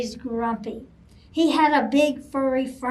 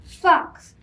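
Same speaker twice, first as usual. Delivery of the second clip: louder angry growl at Fox; growled name; 5 semitones higher, 7 dB louder than usual. Acted. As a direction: bark the name like a cross bear. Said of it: "Bear growled".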